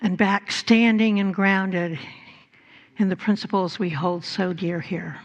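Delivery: soft, unhurried prayer voice; guided prayer. Acted. Minister leading the congregation in healing prayer, soft and calm. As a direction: ease everyone into calm, gentle prayer.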